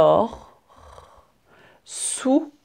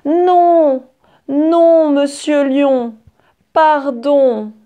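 high, loud, pleading squeak; terrified mouse crying out; 7 semitones higher, 4 dB louder than usual. Acted. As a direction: beg for your life, high and shrill. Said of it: "mais elle crie". (petite souris terrorisée qui crie)

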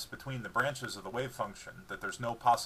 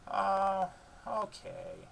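higher then dropping dog voice, glum; moping dog; 9 semitones higher, much slower than usual. A narrator's reading. Dog told to leave, moping dog voice. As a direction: give in sadly like a scolded pup. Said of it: "She mopes out".

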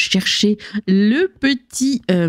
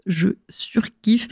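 whispering; 3 dB quieter, much slower than usual. Real, not acted. Aside about the base.

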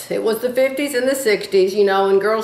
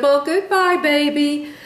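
sweet goodbye; 5 semitones higher than usual. Retold or imitated. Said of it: "her mom was so sweet to her".

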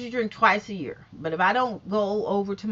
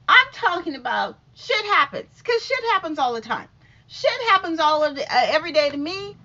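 loud, high rant; fired-up rant; 4 semitones higher, 5 dB louder than usual. Real, not acted. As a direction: push it out loudly.

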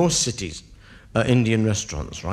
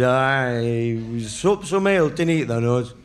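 put-on drunk Yorkshire bloke; slower than usual. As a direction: brag about the pints like a drunk. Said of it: "He said".

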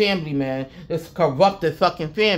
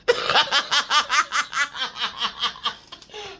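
high bursting laugh; real delighted laughter at her own story; 8 semitones higher than usual. Real, not acted. Laughing to her viewers about the angels.

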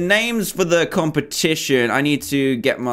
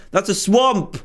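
swamp! blurted out high with delight; finally spotting what he hunted for; thrilled cry; excited; 6 semitones higher, slower than usual. Real, not acted. Sudden excited realization.

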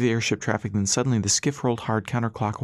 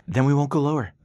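higher voice, mildly raised; shouted reply; 5 semitones higher than usual. A narrator's reading. Dixie answers Rass over the engine roar, shouted. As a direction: call back over the engines. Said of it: "Dixie shouted".

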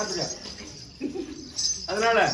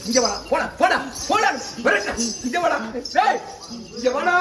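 commanding call; 2 semitones higher than usual. Real, not acted. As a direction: order them away and back. Ordering a spirit about in ritual. (அதட்டும் கட்டளைக் குரல்)

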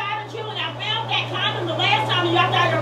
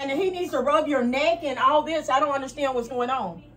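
from another room; 4 semitones lower, 4 dB quieter than usual. Real, not acted. Mom talking outside bathroom door.

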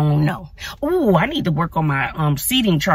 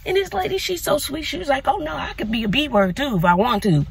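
high sweet lady voice; 8 semitones higher than usual. Retold or imitated. Voicing sweet neighbour.

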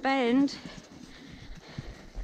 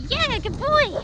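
high, loud cheering praise after the jump; excited praise; 12 semitones higher, 3 dB louder, much slower than usual. Real, not acted. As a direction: cheer the horse on, high and bright. Horse jumps, rider cheers.

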